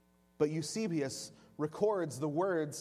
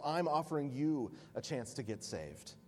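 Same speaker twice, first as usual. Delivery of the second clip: calm reply. Acted. Polycarp calmly turns it around.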